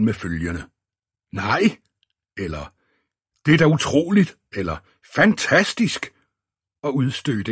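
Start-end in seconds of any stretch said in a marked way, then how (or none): 1.3-1.8 disbelieving exclamation, rising; vantro udråb. A narrator's reading. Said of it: "gav han et vantro udråb". 3.5-4.4 high, loud amazed outburst; disbelieving exclamation. A narrator's reading. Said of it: "gav han et vantro udråb". 5.1-6.1 high-pitched amazed outburst; disbelieving exclamation. A narrator's reading. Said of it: "gav han et vantro udråb".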